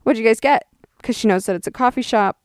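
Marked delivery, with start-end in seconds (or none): 0.0-0.7 very high, friendly "oh, that's great"; high cheerful mom voice; sweet mom voice. Retold or imitated. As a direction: play the chirpy interested mom. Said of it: "my mom's like".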